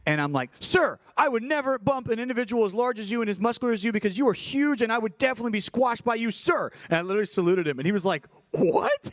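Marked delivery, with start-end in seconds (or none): 0.6-6.7 much higher, overly polite little voice; squeaky exaggerated courtesy, tongue in cheek; mock deferential. Mock-polite reply to big wrestler. 8.5-9.1 a sudden very high mock yelp of confusion; hammed-up disbelief; imitating a confused big guy, squeaked; baffled what. Wrestler's baffled reaction.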